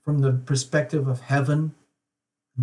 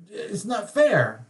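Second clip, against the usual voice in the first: "it's not fair" drawn out slowly and pitched higher; mock whine; 6 semitones higher, much slower than usual.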